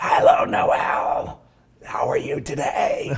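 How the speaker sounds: loud, slow, creaky, rough put-on booming voice. Attempting an impression of Luna, greeting Noelle: Luna impression. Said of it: "an impression, probably not a good".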